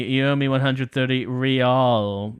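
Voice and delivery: Rial dengan R digulung ala bangsawan palsu; mock aristocratic accent. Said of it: "He pronounces the R with a mock aristocratic accent".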